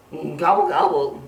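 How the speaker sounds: mild mock groaned gobble; groaning gobble. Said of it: "groaned Turkey".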